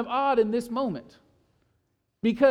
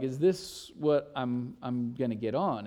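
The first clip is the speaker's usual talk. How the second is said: put-on small scared child; 8 semitones lower, 6 dB quieter than usual. Daughter voiced afraid.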